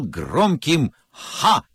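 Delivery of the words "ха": short loud triumphant ha. Shown as a demonstration. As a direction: belt out a single ha. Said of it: "Вот таким".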